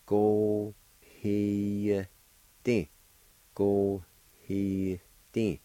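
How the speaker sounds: "Go, he, di" spaced out, no "you" syllable; silent U. Shown as a demonstration. Teacher showing fidelity with silent U, slow "Go, he, di". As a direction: slip a faint Y after "he", then straight to "di". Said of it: "which is silent U like this".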